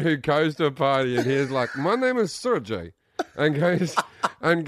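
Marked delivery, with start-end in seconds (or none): 1.7-2.9 put-on slow, higher-pitched Eastern European accent. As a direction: introduce yourself in a mock Eastern European accent. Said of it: "I don't think Eastern European helps you".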